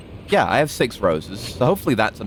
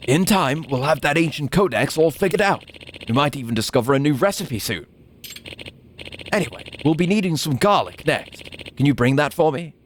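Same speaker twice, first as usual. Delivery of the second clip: put-on old man voice; 4 semitones higher than usual. Voices old professor character.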